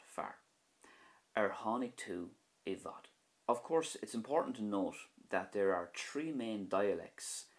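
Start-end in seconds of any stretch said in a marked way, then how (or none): 1.3-3.1 bhfad said vad with a V. Shown as a demonstration. Teacher showing learners bhfad with a V sound. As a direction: say bhfad starting on V. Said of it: "i bhfad there has a V sound".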